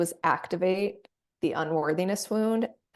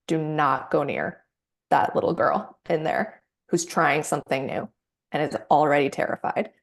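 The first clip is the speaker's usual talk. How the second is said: mama bear advocate. Acted. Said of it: "mama bear ... gets activated and says".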